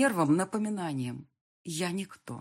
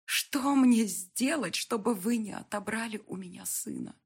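pleading; 6 semitones higher than usual. A narrator's reading. Mother pleading in car.

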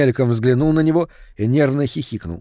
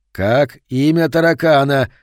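hoarse rasp; 4 dB louder than usual. Acted. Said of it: "прохрипел Мартин".

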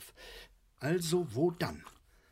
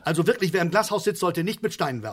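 louder, fast scolding; indignant lecture; 7 dB louder, faster than usual. Acted. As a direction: scold him with the proverb. Vater belehrt Sohn empört. (empört und schnell)

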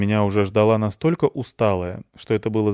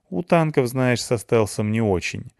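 snapping back; 3 semitones higher than usual. Acted. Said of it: "огрызнулась Клюся".

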